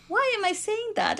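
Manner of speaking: high-pitched self-questioning, startled; surprised at herself. Retold or imitated. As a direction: catch yourself mid-thought, up high. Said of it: "I caught myself thinking".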